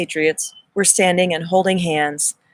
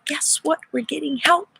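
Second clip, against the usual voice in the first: bright, much higher, eager announcement; excited quote; 9 semitones higher than usual. Retold or imitated. Sharing Elena Danaan's message with the audience, excitedly higher. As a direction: pass on the good news with lifted excitement.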